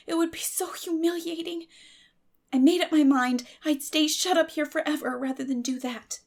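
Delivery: put-on a girl pouring out her temper and shame; Anne, passionate. Anne's long confession.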